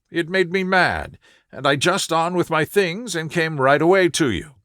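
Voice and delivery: a worried client begging Holmes for help; earnest young woman. Acted. Narrator voices Mary Sutherland.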